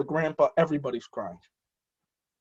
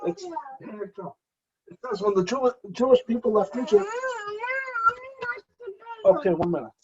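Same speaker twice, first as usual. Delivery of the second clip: choked up crying; 13 semitones higher than usual. Real, not acted. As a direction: voice breaking into real tears, high and halting. Speaker chokes up mid-teaching.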